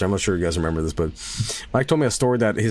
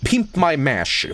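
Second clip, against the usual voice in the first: higher, slow, drawn out boast; playful hype; 6 semitones higher, much slower than usual. Pretend. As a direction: sell it like a silly catchphrase. Hyping his mashed potatoes.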